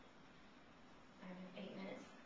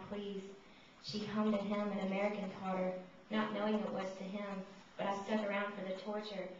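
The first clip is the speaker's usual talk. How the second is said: voice of Mephistopheles; 5 dB louder than usual. Acted. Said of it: "I read it in the voice of Mephistopheles".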